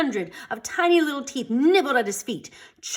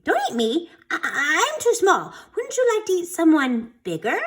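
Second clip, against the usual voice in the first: put-on higher, nervous pleading kid voice; 8 semitones higher than usual. A narrator's reading. Sammy in the monster's paw, pleading higher. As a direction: stammer out a plea for your life.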